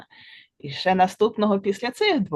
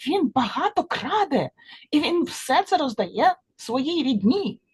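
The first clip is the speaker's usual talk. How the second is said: high-pitched fly voice; tattling fly; 7 semitones higher than usual. A narrator's reading. Fly reports the chipmunk to Gila, high-pitched. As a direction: tell tales up high.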